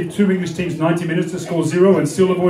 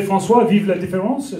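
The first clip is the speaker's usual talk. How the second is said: put-on French accent on the phrase. Quoting the French to the audience, French accent. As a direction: say it lightly in French style. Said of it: "as the French would say".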